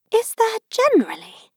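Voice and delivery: high, loud astonished question; a girl amazed at the news; high astonished query. Acted. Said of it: "in an astonished tone".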